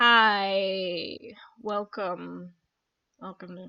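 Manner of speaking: tired, weary waitress voice. Voicing a very tired waitress greeting customers: tired waitress voice. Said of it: "a very tired, like, waitress".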